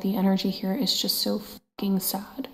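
soft unvoiced whisper, upset; sad whisper. Real, not acted. Medium sensing a sad spirit, whispering to viewers. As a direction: whisper it like it hurts to say.

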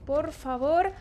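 desperate loud urging at the screen; pleading urge. Real, not acted. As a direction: beg the character to hurry off. Urging her character to move.

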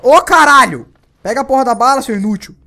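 high, loud self-scolding shout; angry yell. Real, not acted. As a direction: bark at yourself in frustration. Cursing himself for missing ammo. (bronca raivosa, aguda e alta)

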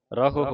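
ਰਹੋ with the aunkar on ਹਾਹਾ, ra-ho clear; careful demo. Shown as a demonstration. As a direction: say ਰਹੋ distinctly. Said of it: "ਰਹੋ ਇਸ ਤਰ੍ਹਾਂ ਪੜ੍ਹਨਾ ਹੈ". (ਰਹੋ ਸਾਫ਼ ਉਚਾਰਨ)

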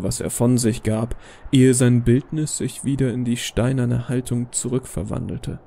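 plain reading voice

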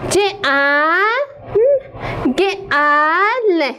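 جنگل broken into single slow sounds; sounding out letters. Shown as a demonstration. (صداکشی حرف به حرف)

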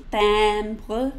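Timbre with nasal E, tam-bruh; French timbre. Shown as a demonstration. Teacher modeling Timbre, nasal E. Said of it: "Say it with me".

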